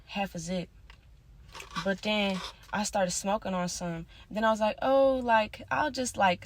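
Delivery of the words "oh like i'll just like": higher and louder, eager; sudden eager burst; retold excitement. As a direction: jump up as if struck by the idea. Retelling own excited thought.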